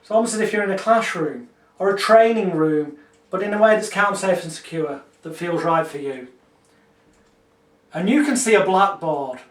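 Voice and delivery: calm, measured hypnotist voice; hypnotic script. Shown as a demonstration. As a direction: guide the dream gently. Continues demo script.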